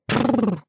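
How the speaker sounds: rolled brrr to halt a horse; a carter's trill stopping the horse; driver's lip trill. Acted.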